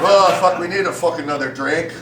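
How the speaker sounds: hammed-up Irish accent; loud Irish groan, then settling; Irish part of me. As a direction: grumble for a drink in an Irish accent. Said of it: "the Irish part of me is like".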